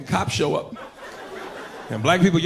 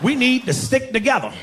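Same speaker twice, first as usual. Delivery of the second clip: excited greeting; 8 semitones higher than usual. Retold or imitated.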